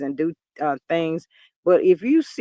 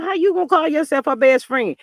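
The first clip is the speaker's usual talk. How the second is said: higher-pitched indignant dressing-down; mock reproach, pitched up; retold scolding; 5 semitones higher than usual. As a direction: imitate someone telling a friend off. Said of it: "she ripped a hole in that dude".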